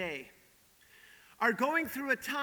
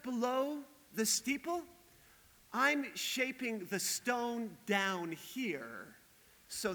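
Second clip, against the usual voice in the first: gentle mason. Acted. Mason explains to man.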